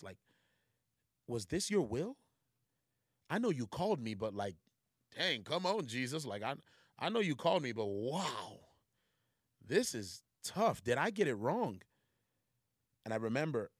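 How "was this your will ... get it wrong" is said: raised, pleading voice to God; pleading prayer of doubt; desperate questioning of God. Retold or imitated. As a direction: cry out to God in frustration. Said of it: "And I'm questioning God".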